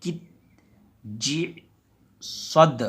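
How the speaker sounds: कित and जी plain, सद knocked at its end; reading with qalqala on the dal; qalqala only on the last letter. Shown as a demonstration. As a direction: bounce only the द. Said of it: "इसको पढ़ेंगे बस".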